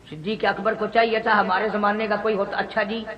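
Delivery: low, soft, underplayed imitation of hesitancy; mock caution. Preacher imitating today's man postponing action, quiet and low. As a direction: drop right down as if backing off quietly.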